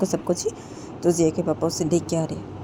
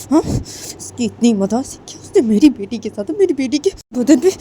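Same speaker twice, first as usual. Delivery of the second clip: angry mother; 3 semitones higher, 3 dB louder than usual. Acted. Furious mother confronts other family.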